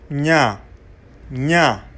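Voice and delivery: "nya" opening like the GN in French agneau; palatal nasal. Shown as a demonstration. Teacher modelling a Pulaar letter, palatal nasal "nya". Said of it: "prononcé comme le G N en français".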